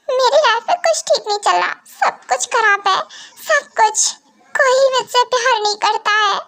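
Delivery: son's voice lifted high, complaining he is sad; a hurt boy pouring his heart out to mom. Acted. Son tells mom nobody loves him, in a high sad voice.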